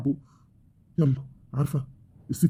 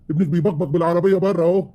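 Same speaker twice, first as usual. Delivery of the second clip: angry complaint; 4 semitones higher, 3 dB louder than usual. Acted. Husband complaining to her.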